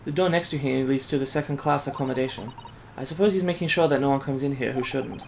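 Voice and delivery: put-on soft, lightly Asian-accented young assistant; restrained Asian accent, softly spoken; light Asian immigrant accent. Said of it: "like, an Asian immigrant".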